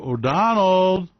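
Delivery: slow drawn-out Donald, Donald; mock worried adviser; pleading with Donald. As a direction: coax him gently. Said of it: "And I go sit down and go".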